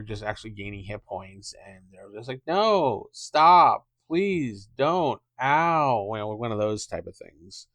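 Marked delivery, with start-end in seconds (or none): 2.5-6.1 mock pleading goblin. Goblins begging while being hit.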